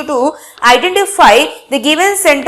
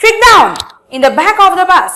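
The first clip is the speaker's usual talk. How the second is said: exclamation; 3 semitones higher than usual. Shown as a demonstration. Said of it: "Ended with a exclamation mark".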